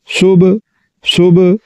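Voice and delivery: सुब ending in a bouncing b; with a jolt. Shown as a demonstration. Teacher repeating correct qalqala on सुब. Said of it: "झटके के साथ पढ़ना है".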